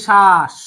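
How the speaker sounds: শ্বাস drawn out as "shaash", no b; second syllable শ্বাস said alone, stretched; split syllable demo. Shown as a demonstration. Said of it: "তারপর আবার বলি".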